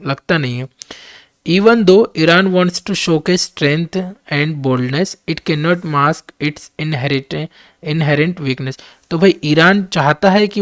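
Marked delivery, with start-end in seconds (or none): 1.5-8.8 reading the English text out very slowly and deliberately; slow dictation reading. Acted. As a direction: spell out each word for students to follow. Reads editorial aloud slowly. (धीमी गति से पाठ पढ़ना)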